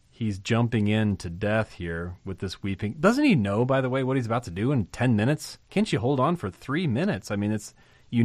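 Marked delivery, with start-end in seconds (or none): 3.0-7.3 incredulous. Real, not acted. Preacher's incredulous rhetorical questions.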